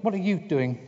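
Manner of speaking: high little piglet voice; a small, curious animal asking. Acted. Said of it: "said Piglet".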